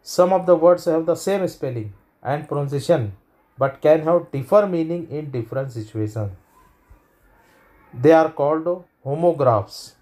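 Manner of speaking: slow, deliberate reading of a definition; slow textbook read. Shown as a demonstration. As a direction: read the definition out slowly to the class. (धीमी, साफ़ परिभाषा पढ़ना)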